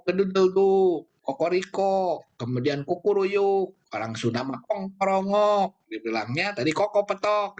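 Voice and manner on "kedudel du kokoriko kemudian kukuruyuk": rooster crow. Shown as a demonstration. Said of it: "ya tadi ada".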